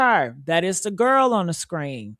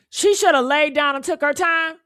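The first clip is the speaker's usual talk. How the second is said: incredulous; 5 semitones higher than usual. Real, not acted. Incredulous repeat of quote.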